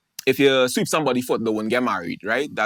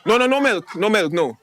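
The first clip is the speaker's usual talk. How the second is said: fussy tea order; 3 semitones higher than usual. Acted. Patient telling the server no milk, two sugar, high and fussy. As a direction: fuss over the tea order.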